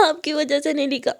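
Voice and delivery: tearful, pushing-away reproach. Acted. Student blaming her teacher, tearful. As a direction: blame her through tears. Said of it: "मुस्कान रोते हुए कहती".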